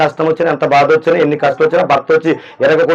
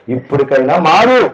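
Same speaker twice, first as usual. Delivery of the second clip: cool gentle voice; slower than usual. Retold or imitated. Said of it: "చల్లని స-, నల్లని స్వరము".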